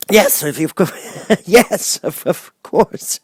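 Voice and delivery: stammering with a little laugh; a sheepish old man laughing it off; chuckling wizard. A narrator's reading. The Wizard chuckles his yes to Dorothy, stammering.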